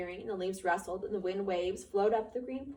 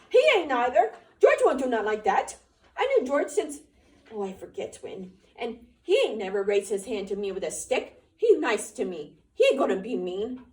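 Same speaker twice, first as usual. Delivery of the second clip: loud, high, defiant retort; belligerent; 4 semitones higher, 10 dB louder than usual. A narrator's reading. Lenny defending George to the rabbit, loud and high. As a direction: fight back, high and loud. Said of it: "Lenny retorted belligerently".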